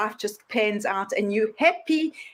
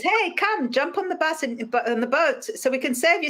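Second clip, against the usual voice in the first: higher, friendly call-out; calling rescuer; 5 semitones higher than usual. Retold or imitated. Boat rescuer calling to man on roof, higher. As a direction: call him onto the boat.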